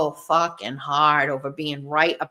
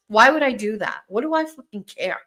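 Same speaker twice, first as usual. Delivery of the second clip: usual speaking voice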